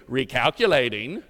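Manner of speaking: annoying GPS voice. Retold or imitated. Preacher mimics his GPS scolding him to the congregation, mock nagging voice. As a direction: play the nagging sat-nav scolding the driver. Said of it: "in that annoying little voice".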